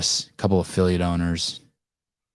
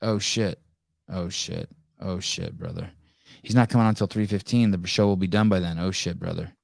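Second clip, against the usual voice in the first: imitating Lucas. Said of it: "He said".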